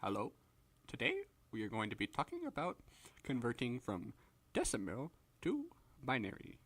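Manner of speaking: quiet, droning lecturer imitation; dull professor. Professor lecturing on digital systems, quiet dull drone. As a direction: drone it softly in short chunks, long pauses. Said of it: "it's like that for".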